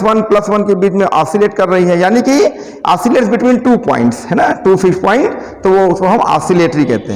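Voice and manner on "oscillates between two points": slow dictation. Shown as a demonstration. Teacher dictating a definition.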